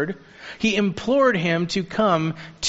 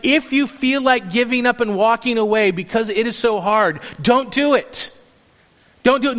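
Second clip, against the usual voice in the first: higher-pitched, impassioned plea to hold on; urgent exhortation; 5 semitones higher than usual. Acted. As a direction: urge them earnestly, pitch lifted, leaning on the last words. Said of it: "they're actually urging these church members".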